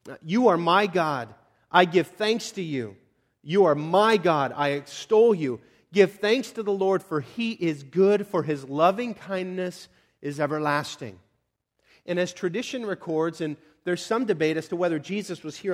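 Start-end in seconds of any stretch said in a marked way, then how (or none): 0.2-11.2 slow, measured recital of a psalm; scripture reading. Acted. Preacher reading the closing psalm to the congregation, solemn recital. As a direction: give each phrase weight, slowly. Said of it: "that read as follows".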